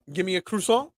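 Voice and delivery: lightly put-on French accent, rising at the end; token French accent. Shown as a demonstration. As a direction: try a little tourist French accent. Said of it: "that's my French accent".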